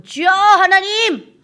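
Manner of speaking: high, loud, long-drawn shout to God; full-voiced fervent call; unrestrained prayer cry. Shown as a demonstration. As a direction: cry out to the Lord without holding back. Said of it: "여러분들이 마음 놓고".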